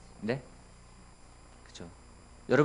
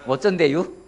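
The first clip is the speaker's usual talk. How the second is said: light mock Chungcheong dialect; lightly hammed Chungcheong dialect; 4 semitones higher, 3 dB louder than usual. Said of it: "충청도는".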